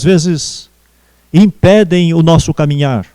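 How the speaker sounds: earnest, unhurried congregational prayer; spoken prayer. Real, not acted. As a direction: pray aloud phrase by phrase, addressing God.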